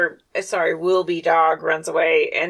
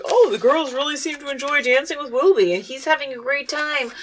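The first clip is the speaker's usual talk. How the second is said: high, lightly mocked parent voice; oblivious parents; 5 semitones higher than usual. Parents watching their son at the dance, mock oblivious delight. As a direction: pitch it up like a pleased, clueless parent. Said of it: "and the parents are at the dance".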